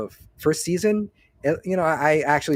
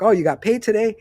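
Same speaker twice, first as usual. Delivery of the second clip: higher, louder mock surprise; a smug jab at the new guy; mocking bully; 8 semitones higher, 5 dB louder than usual. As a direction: tease him like a bully. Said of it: "he just tells him".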